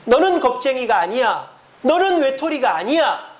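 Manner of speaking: rising, earnest reassurance as God; voicing God's comfort. Pastor voicing God comforting the congregation, earnest reassurance. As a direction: proclaim the comfort with lifted voice. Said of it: "하나님께서 여러분들에게".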